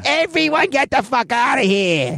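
very high, drawn-out bartender yell; closing-time holler. Retold or imitated. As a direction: stretch it out high across the whole bar. Bar staff hollering at closing time.

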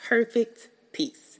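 perfect peace lifted and stressed; emphasis on perfect peace. Shown as a demonstration. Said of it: "I had to put the emphasis".

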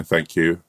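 "Thank you" with a toothless lisp, s and th blurred. Retold or imitated. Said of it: "now with a bit of a, a lisp".

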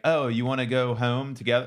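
put-on Philly accent on home. Host imitating Cherry Hill talk, Philly accent. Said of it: "Cherry Hill, Philly, like".

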